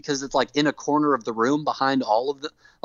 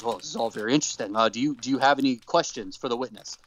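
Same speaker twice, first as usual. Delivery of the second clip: brisk dismissal; 4 semitones lower than usual. Retold or imitated. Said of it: "And Vince says".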